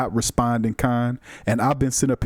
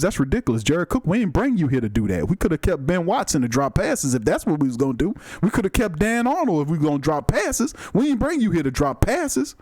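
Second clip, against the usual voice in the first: Reverend Saint voice; 3 semitones higher than usual. Acted. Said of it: "Reverend Saint sound like my drunk uncle".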